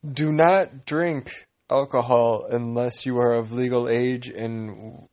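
slow formal disclaimer voice; disclaimer read. Pretend. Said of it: "that is not what I was talking about".

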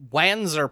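Wanzer said with a short "a" as in "wan" rhyming with "fan"; deliberate mispronunciation. Shown as a demonstration. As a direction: say Wanzer as "WAN-zer", vowel of "cat". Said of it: "that is not how you should say that".

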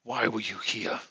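a hint of a threatening old shaman; lightly voiced menacing priest.

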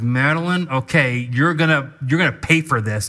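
hammed-up threat of payback; mildly angry, pretend warning; mock angry. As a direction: play at being livid. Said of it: "I am angry".

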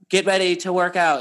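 mechanical fitness app announcer; lightly imitated robot voice. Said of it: "in her robot voice".

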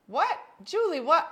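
high, loud disbelief; shocked what. Real, not acted. Reacting to Julie breaking her husband's finger, shocked. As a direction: gasp it out in shock.

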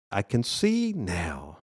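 slowly savored I can see now; slow realization. Shown as a demonstration. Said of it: "Remember that old secular song?".

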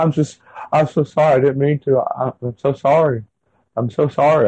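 lightly voiced high-pitched tearful apology; a hint of a wife crying in a voice not her own. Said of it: "It was, like, higher pitched".

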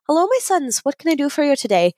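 a hint of a kindly convent head; Mother Superior. Mother Superior greeting leprechauns at the door, lightly voiced nun. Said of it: "she opens the latch and she goes".

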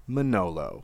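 low, understated name drop; low-key punchline reveal; dramatic reveal. Acted. Dramatic reveal of chosen person.

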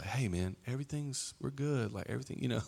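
soft, hushed calming words to someone screaming. Shown as a demonstration. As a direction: ease them down quietly, like nothing is wrong. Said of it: "just talk softer".

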